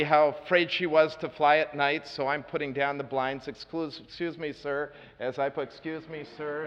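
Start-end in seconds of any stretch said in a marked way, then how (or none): 3.5-4.9 softly, a gentle apology leaning past her; soft polite excuse. Retold or imitated. To the upset woman by the window, soft and polite. Speaker says it to Krista at the blinds. 5.7-6.7 much softer, nearly under the breath; softer polite excuse. Retold or imitated. Reaching across the frightened passenger, hushed and gentle. Says it again while lowering the blinds.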